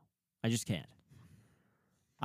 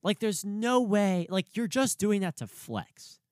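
incredulous; 7 semitones higher, 4 dB louder than usual. Retold or imitated. Her own disbelief on the train.

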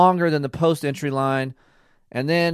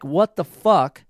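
higher, drawn-out mock exasperation; imitated exasperated outburst; 5 semitones higher, slower than usual. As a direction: act out a wife spiking out, without malice. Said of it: "she will spike out, and not maliciously".

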